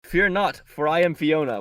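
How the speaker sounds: lightly voiced grand declaration; mock Fiona catchphrase. Quoting the nanny's catchphrase to a friend, lightly hammed-up. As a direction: proclaim it like a self-important nanny. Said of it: "was her catchphrase".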